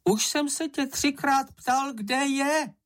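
high, small creature voice; whiny little critter voice; high squeaky Sniff voice. Acted.

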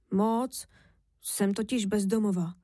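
mildly downcast confession; understated, crestfallen little voice; dejected admission. Acted. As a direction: admit it with a touch of gloom. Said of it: "přiznal sklesle Kořínek".

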